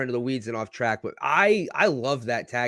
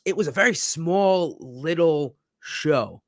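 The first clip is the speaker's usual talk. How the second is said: tiny voice; 3 semitones higher, slower than usual. Shown as a demonstration. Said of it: "There you go".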